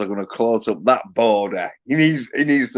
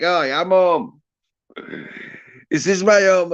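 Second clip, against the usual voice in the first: mimicking the dude; 7 semitones higher than usual.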